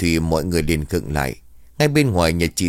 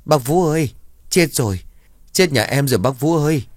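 put-on high, tearful wail of a panicked young mother; mếu máo khóc lóc cầu cứu, giọng cao vút; wailing, sobbing; 7 semitones higher than usual. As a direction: cry out for help through tears, pitched way up. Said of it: "tiếng khóc mếu máo".

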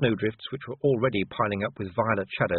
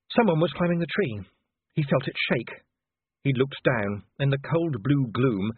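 ordinary delivery, nothing marked

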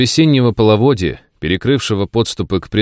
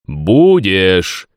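echoing ethereal energy being; 4 dB louder than usual. Acted. Worm insists in dream.

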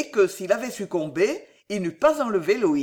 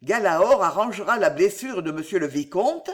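bewildered; 4 dB louder than usual. Acted. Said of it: "demanda l'aubergiste ahuri".

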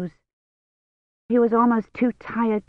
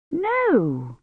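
higher, startled "No"; a shocked denial, pitched up; 9 semitones higher, 4 dB quieter than usual. A narrator's reading. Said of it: "sounding shocked".

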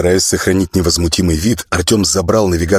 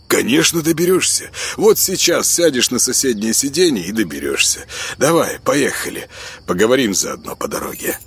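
higher-pitched, chivvying pal; breezy insistent friend; 5 semitones higher than usual. Acted. Kostya urging his friend into the car, breezily insistent. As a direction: brush off his protest and hurry him along.

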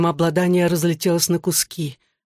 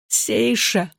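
higher, begging call of her name; pleading cry; 4 semitones higher than usual. A narrator's reading. Mishe begging her ghost sister to let go, pleading. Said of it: "взмолилась я".

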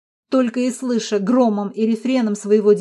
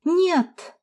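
much higher, piercing; shrieked no; 8 semitones higher than usual. A narrator's reading. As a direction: flare up like a match. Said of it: "взвизгнула я". (пронзительно взвизгнуть)

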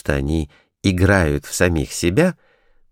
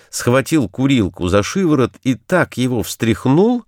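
ordinary delivery, nothing marked

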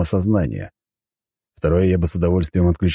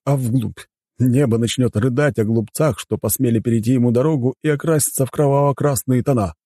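sinister; 7 semitones higher than usual. A narrator's reading. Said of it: "появилась зловещая ухмылка".

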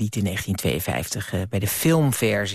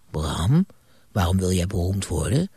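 put-on a lower, hushed old ghost voice; old ghost Moskou; 4 semitones lower than usual. Old ghost questioning Bram at his bed, lower ghostly voice. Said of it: "een oude Moskou als een geest".

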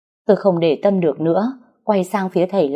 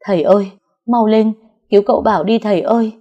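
fast, louder desperate begging; girl begging the healer in fright, fast; frightened pleading; 3 semitones higher, 4 dB louder, faster than usual. Acted. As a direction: beg the healer to save him. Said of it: "tôi sợ hãi lay tay thầy van xin".

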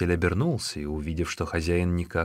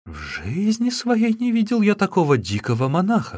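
higher, exasperated cry; exclaiming innkeeper; 11 semitones higher, 4 dB louder than usual. Acted. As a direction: throw up your hands and cry out. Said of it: "вскричал хозяин".

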